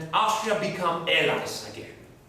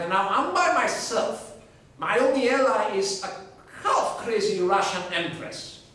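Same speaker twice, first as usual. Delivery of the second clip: baffled Charles. Acted. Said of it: "Charles is like".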